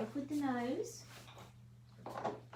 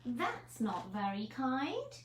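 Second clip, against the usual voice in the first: slow, mildly mournful little voice; understated hurt hedgehog; sad hedgehog; 6 semitones higher, 3 dB louder, slower than usual. Acted. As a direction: sigh out the disappointment.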